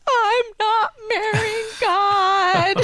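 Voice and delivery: high, long sing-song sob; mock crying wail. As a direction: imitate a teenager bawling in protest, words dragged out. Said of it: "I start crying".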